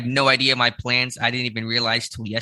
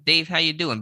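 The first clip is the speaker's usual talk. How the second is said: voice crack; 5 semitones higher than usual. Real, not acted. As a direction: voice cracking up high on the question. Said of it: "Better than my voice crack".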